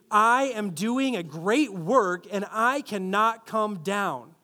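put-on slow, defiant teenage sass; a fifteen-year-old girl told she can't have the car, huffy and defiant; sulky teen attitude. Shown as a demonstration. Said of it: "with the attitude of a fifteen-year-old girl".

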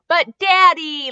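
put-on loud, high, slow little-girl whine; mock four-year-old whine; child whine. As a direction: drag it out like a sulking child. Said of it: "Lyra whined".

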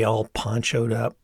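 ordinary delivery, nothing marked

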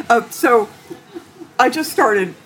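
ordinary talk, nothing marked

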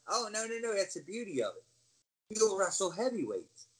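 breezy, lightly voiced persuasion; persuasive reassurance. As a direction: imitate a boss brushing off an objection. Office reassuring him, acted out.

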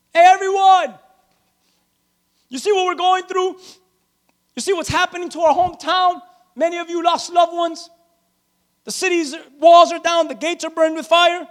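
earnest mock address to a hometown crowd; Nehemiah rallying. Nehemiah calls to everyone about the burned gates, lightly acted rallying.

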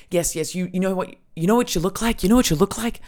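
high, rapid, excited attempt at old Scotsman; badly faked Scottish accent, insistent and repetitive; uncertain Scottish accent. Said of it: "I don't know what this accent is".

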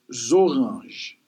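"zorange" drawn out as zo-rahnzh; Creole pronunciation. Shown as a demonstration. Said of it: "In Creole, it is".

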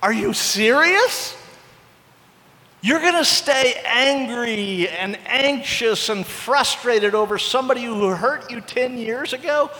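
slow, drawn-out disbelief; a slow, pained are you serious; incredulous God. Retold or imitated. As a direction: stretch it out as if you can't believe it. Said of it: "He's like".

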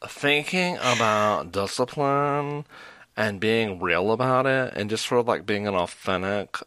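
vocal fry gushing, hammed-up. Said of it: "It's the vocal fry".

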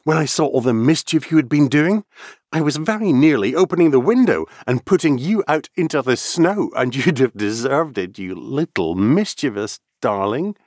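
put-on high, loud girlish scold; a worked-up little girl telling off her kitten; Alice, excited scolding. A narrator's reading.

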